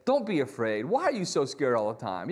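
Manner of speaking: rebuking. Pretend. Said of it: "He could have rebuked them".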